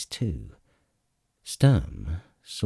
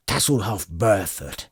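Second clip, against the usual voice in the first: calling out. A narrator's reading. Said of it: "Flint called".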